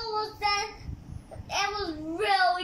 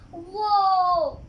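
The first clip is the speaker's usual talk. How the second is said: whoa; 7 dB louder than usual. Real, not acted. Kid reacts to a big number.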